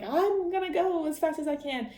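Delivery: earnest giant. Retold or imitated. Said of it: "Fezzik's like".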